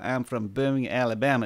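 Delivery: half-hearted American Southern accent; unconvincing Alabama accent, barely put on; attempted Alabama accent. Shown as a demonstration. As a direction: have a weak go at an Alabama accent. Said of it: "I can't do an American accent".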